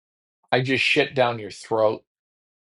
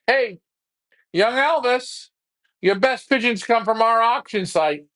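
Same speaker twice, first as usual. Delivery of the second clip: much higher, hyped-up promo voice; cocky plug; 9 semitones higher than usual. Acted. Flyer pitching his auction site to his young rival. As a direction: sell it with a cocky grin.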